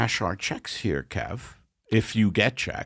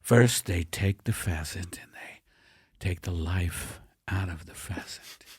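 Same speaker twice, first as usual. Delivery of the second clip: whispering; 3 semitones lower, 5 dB quieter than usual. Acted. Hushed cooking description.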